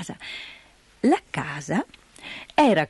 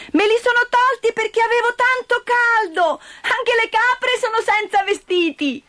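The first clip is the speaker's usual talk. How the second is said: put-on high, lively child voice; little girl; 13 semitones higher than usual. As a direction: play an innocent excited girl. Child voice of Heidi.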